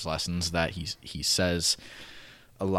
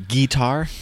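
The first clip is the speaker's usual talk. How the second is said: put-on Southern accent; 7 semitones higher, 10 dB louder than usual. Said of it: "his accent's thicker".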